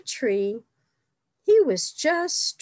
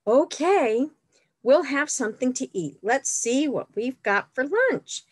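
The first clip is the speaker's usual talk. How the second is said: cheerful picnic host; 4 semitones higher than usual. Acted. Picnic figure voiced in story.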